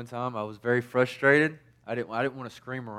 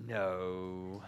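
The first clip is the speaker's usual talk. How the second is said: giggly no; 2 semitones lower, 8 dB quieter than usual. Retold or imitated. Daughter's giggling answer voiced.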